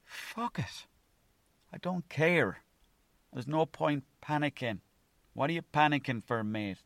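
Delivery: high carefree self-talk; carefree outburst. Retold or imitated. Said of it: "it was just".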